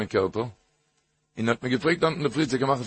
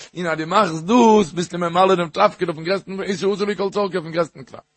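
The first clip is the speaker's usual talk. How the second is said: higher, insistent push on the moral; rousing exhortation; 4 semitones higher, 3 dB louder than usual. Real, not acted. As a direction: drive the point home with fervour. Drives home the story's moral, repeated. (מיט התלהבות און נאכדרוק)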